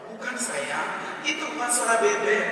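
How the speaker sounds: mildly exasperated contradiction; insistent wife. Retold or imitated. Wife contradicts husband over the sound, mounting insistence. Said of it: "Sambil sang istri menghentakkan kakinya".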